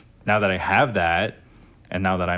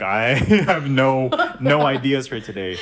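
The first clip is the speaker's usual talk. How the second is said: put-on laughing through a quote of her old post; 6 semitones higher, 5 dB louder than usual. Quoting her own old post to friends, laughing. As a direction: giggle out the words, mock-serious. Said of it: "I think I just said".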